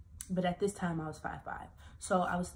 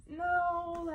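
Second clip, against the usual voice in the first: retold no; 12 semitones higher, 4 dB louder than usual. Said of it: "And I was just like".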